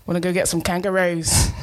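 badly faked Australian accent. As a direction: attempt Australian, not quite landing it. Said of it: "That's meant to be Australian".

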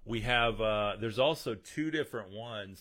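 holding in a sneeze; holding back a sneeze. Real, not acted. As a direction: talk while fighting a sneeze. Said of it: "Sorry, I'm trying not to sneeze".

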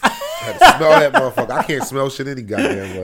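congested, stuffy nose; blocked nose. Real, not acted. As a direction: talk through a stuffed-up nose. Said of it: "That shit sounded so congested".

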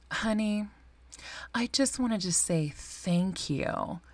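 hushed, slow, sweetly condescending praise; mild imitation of a passive aggressive mother; condescending mom. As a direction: whisper it like a mom being pointedly proud. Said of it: "in a condescending tone".

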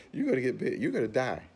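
exaggerated warning of doom; mock alarm. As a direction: play fear sounding the alarm, high and loud. Acting out fear's alarming warning.

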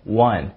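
one with a clear short uh vowel, like wun; correct one. Shown as a demonstration. Teacher modelling how one is said. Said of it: "有一个单词叫one".

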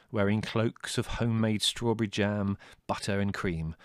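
ordinary delivery, nothing marked

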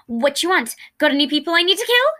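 talking around a thumb being bitten; muffled. Acted. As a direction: mumble past a thumb in your mouth. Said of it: "His words were a bit muffled".

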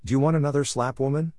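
lightly voiced bully's threat; angry threat. A narrator's reading. Husband threatening his wife with a slap, mild anger. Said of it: "Bisto asked angrily".

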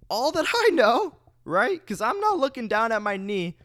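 high-pitched dramatic storytelling. Real, not acted. Dramatic retelling of pain.

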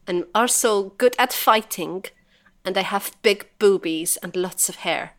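lightly put-on Swedish accent. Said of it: "That was so horrible".

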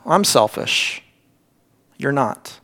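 low and hushed, with a pause; humble confession. Acted. Preacher voicing Jonah's realization to God, hushed confession. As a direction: drop down softly, as if admitting it to God.

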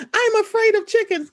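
high-pitched mock fright; exaggerated, put-on scaredy voice; played-up fear. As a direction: imitate someone hamming up a phobia. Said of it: "she was playing up that whole".

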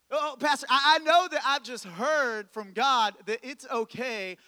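a touch of self-justifying pleading; mock congregant. Congregant excusing themselves to the pastor, lightly mocked earnest voice.

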